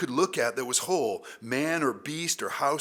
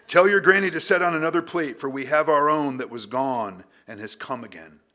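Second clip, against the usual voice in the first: put-on Southern accent; 2 semitones higher, 8 dB louder than usual. Father announcing his son's return to the family, Southern accent. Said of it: "I had to go Southern accent with that".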